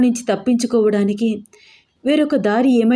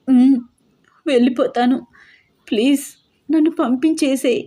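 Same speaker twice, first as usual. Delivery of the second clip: high, pleading request after crying; begging; 4 semitones higher than usual. A narrator's reading. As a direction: plead with him to let you go. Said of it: "చాలా బ్రతిమలాడుతూ అడిగాను నేను". (బ్రతిమలాడుతూ వేడుకోలు)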